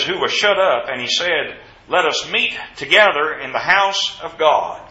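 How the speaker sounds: firm, measured Bible reading; scripture reading. Acted. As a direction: read the verse out to the congregation. Reads scripture aloud.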